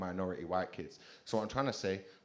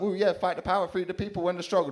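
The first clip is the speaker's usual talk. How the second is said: higher, louder protest cry; rallying activist; 9 semitones higher, 7 dB louder than usual. Retold or imitated. The power sign speaking as a protester, high and rousing. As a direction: rouse the crowd for the cause. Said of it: "This sign's like".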